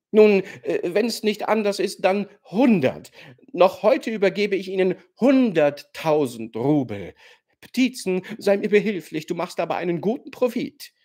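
excited bidding. A narrator's reading. Rogoschin raises his bid.

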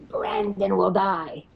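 slow, lightly growled threat; growly voice. Retold or imitated. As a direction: imitate a growly entity, drawing it out. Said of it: "in this growly voice".

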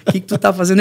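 words laughed out; laughing disbelief. Retold or imitated. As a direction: laugh at a crazy friend. Friends laughing at him. (amigos rindo, incrédulos)

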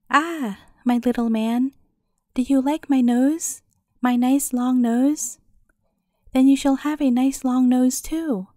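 a hint of a croaking witch; hoarse croaking crone. Old witch threatens Jacob with a long nose, lightly croaking and gloating. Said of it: "in a hoarse, croaking voice".

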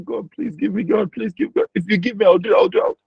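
hurried, rising plea that trails unfinished; mock begging. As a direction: act out desperate bargaining with God. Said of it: "they were begging".

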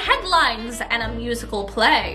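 slow, measured storybook verse; rhyming story narration. Acted. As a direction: close the tale like a children's rhyme.

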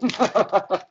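short laugh that hurts; laughing through the pain. Real, not acted. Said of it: "it hurts to laugh".

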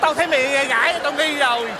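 indignant accusation. Acted. Man catching neighbour Tư in disguise, indignant.

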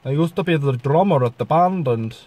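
lightly put-on Finnish accent. Shown as a demonstration. Vlogger recalling life as a band drummer, Finnish accent. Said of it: "over to Finland".

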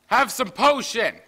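high, slow, loud sing-song offer; slow excited call. Acted. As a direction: stretch it out gleefully. Offering potion playfully.

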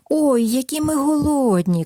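hungry little mice. Acted.

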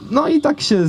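ordinary talk, nothing marked

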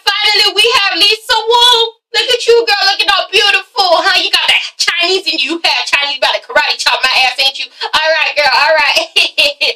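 mock Carmen roast. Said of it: "she's like".

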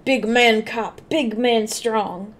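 slow, dumb caveman talk; mock brute, slow and heavy. Mocking caveman-style description.

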